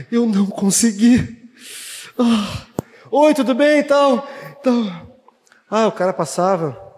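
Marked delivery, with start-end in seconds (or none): 3.1-5.1 nervous greeting. Retold or imitated. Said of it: "eu tava morrendo de medo".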